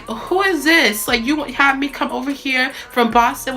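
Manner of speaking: indignant demand. Retold or imitated. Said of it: "I'm like".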